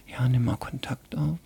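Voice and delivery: whispered thought. Retold or imitated. Patient thinking silently during treatment, whispered. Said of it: "hab dann so gedacht".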